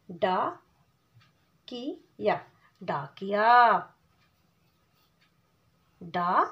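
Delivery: slow syllable-by-syllable sounding out. Shown as a demonstration. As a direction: break the word into pieces for a child. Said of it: "sounds out डाकिया".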